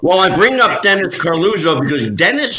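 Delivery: choppy connection, breaking up; words dropping out over bad internet; glitching audio. Real, not acted. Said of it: "your audio is breaking up real bad".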